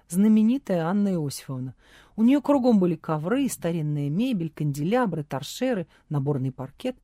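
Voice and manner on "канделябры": ordinary delivery, nothing marked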